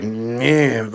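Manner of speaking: mock sour grunt; brief grouchy "meh", hammed-up; pissed-off old lady grumble. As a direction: imitate a grumpy old lady's dismissive noise. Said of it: "pissed off old lady face".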